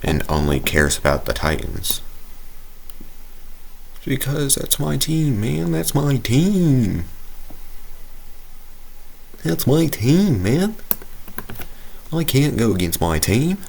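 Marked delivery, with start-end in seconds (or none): 4.0-13.6 much higher, goofy put-on voice; silly high voice. Fan declaring loyalty to his team, in a goofy high voice. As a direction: squeak it out like a cartoon fan. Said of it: "I don't know why I'm doing that voice".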